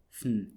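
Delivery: "fen" as just "fn"; vowelless ending. Shown as a demonstration. Teacher isolating the cluster, no vowel. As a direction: say "fen" with f going straight into n. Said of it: "So it dropped the vowel".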